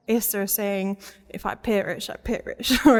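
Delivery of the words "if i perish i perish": put-on Italian accent. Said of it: "like, an Italian accent".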